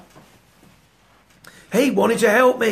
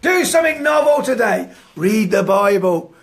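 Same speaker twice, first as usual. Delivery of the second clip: pointed command; 4 dB louder than usual. Retold or imitated. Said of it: "can you imagine having that said".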